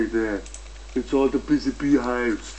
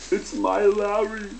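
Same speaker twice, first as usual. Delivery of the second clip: much higher and slow; high silly voice; 8 semitones higher, slower than usual. Acted. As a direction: stretch it out in a squeaky high voice. Put-on high voice.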